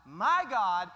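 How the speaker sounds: loud anguished cry to God; cried out. Acted. Preacher voicing Jesus crying out. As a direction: cry it out like a man forsaken.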